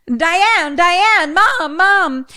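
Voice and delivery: high, loud cries of names; acted desperate calling; frantic calling out. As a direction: shout for them in mock panic. Retelling Dad shouting for family.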